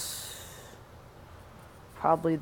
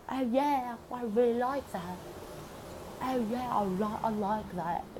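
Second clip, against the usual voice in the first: much higher hammed-up flirting; mock flirty singer; 5 semitones higher than usual. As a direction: purr it like a cheesy seducer.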